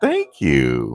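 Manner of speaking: sugary, gracious, all-sweet delivery. Recounting a woman's reply during a cross-examination, imitating an all-sweet thank-you. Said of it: "like, all sweet".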